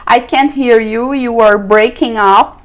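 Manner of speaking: slow model phrase. Shown as a demonstration. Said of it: "Você pode dizer dessa forma também".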